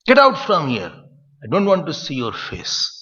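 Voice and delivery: a touch of a harsh teacher throwing a student out; curt, stern dismissal; mock scolding. Teacher sending a disciple away, mildly harsh. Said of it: "This is the hard way used".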